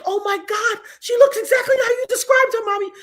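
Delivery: high, astonished acted exclamation; amazed daughter. Daughter amazed on seeing the woman.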